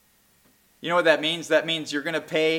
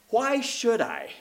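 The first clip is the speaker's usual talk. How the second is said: gentle question; 6 semitones higher, 4 dB quieter, slower than usual. Acted. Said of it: "He's not saying it with a bad attitude".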